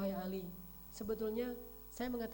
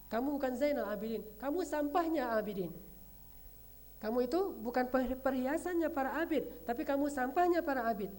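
raised, louder scornful insults, only a touch acted; insulting sneer; 3 semitones higher, 4 dB louder than usual. Spiteful man insulting Ali Zainal Abidin in the mosque, raised mock scorn. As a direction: spit out the insults at him. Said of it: "Apa kata laki-laki ini?".

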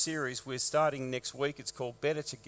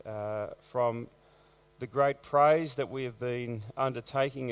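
prayer; 2 semitones lower than usual. Acted. Pastor leads a prayer.

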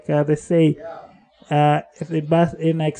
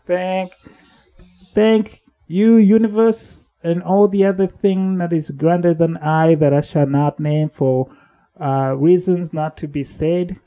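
relieved thanks; 3 semitones higher, 4 dB louder than usual. Retold or imitated. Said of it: "I was like".

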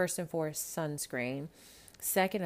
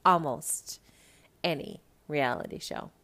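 emphatic almost; stress on Almost. Shown as a demonstration. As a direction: hit Almost, let the rest drop.

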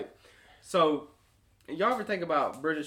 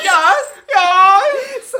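mock British; 13 semitones higher, 15 dB louder than usual.

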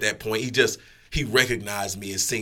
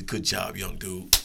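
lower, understated praise; calm condescension; 3 semitones lower, slower than usual. Retold or imitated. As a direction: give calm veteran praise. Retold calm patronising praise.

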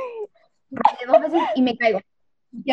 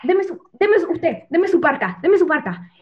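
mock inspector asking for a jacket; 4 semitones higher, slower than usual. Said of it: "Y el inspector dice".

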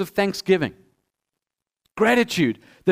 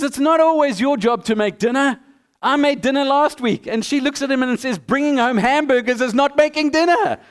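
higher-pitched, mildly indignant bickering; mock marital bickering; 4 semitones higher than usual. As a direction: act out a touchy couple arguing. Acted quarrel between husband and wife.

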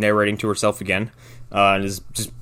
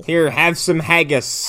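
mock Scottish accent; 3 semitones higher, slower than usual. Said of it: "and Scottish vernacular".

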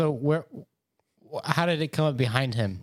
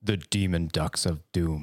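serious headline delivery; grave announcement, lightly done; more serious. Shown as a demonstration. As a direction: read the silly name in earnest. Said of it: "Say it more seriously".

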